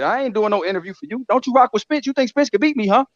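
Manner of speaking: mock Bud taunting. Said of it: "He said".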